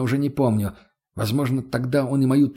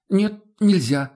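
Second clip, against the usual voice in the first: higher, slow mock innocence; mock innocent; 7 semitones higher, 3 dB louder, slower than usual. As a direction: play it faux innocent, drawn out. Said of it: "сделал невинное лицо". (с наигранно невинным видом, медленно)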